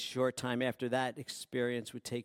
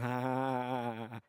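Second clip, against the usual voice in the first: nervous laugh. Acted. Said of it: "Thomas is going".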